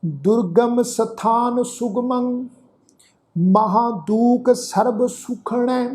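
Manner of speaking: slow Gurbani verse with stretched vowels; measured, sustained sacred reading; scripture recitation. Shown as a demonstration. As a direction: recite line by line, slowly and steadily. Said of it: "ਆਓ ਉਚਾਰਨ ਕਰੀਏ ਜੀ".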